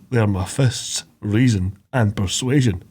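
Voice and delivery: lightly voiced Sean Connery, unhurried Scottish; a touch of Connery's Scottish lilt as Shrek; understated Sean Connery Scottish accent; Sean Connery impression. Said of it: "sound like Sean Connery".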